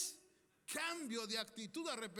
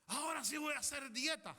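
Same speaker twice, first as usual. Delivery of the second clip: mock resolution; 6 semitones higher, 5 dB louder than usual. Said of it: "el que quiere adelgazar".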